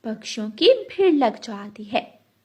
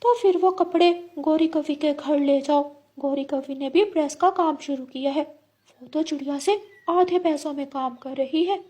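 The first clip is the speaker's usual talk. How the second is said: lightly voiced, higher-pitched parrot husband; parrot husband, advising; 4 semitones higher than usual. Parrot telling his wife of cheaper pressing, mildly urging. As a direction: urge her on in a raised pitch.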